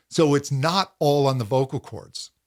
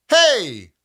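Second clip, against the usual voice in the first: higher, louder call across the street; calling hey; 6 semitones higher, 6 dB louder than usual. Shown as a demonstration. Coach demonstrating calling to a friend across the street. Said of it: "like you're calling to a friend across the street".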